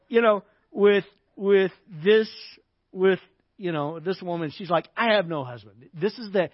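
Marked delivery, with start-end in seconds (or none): 5.0-5.9 louder, lower curt denial; conversation killer. Acted. Woman shutting down talk with Jesus, curt. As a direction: say it to end the conversation. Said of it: "supposed to be the conversation killer".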